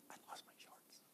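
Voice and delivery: breathy, very soft confession; embarrassed whisper. Retold or imitated. Retold beach secret exchange.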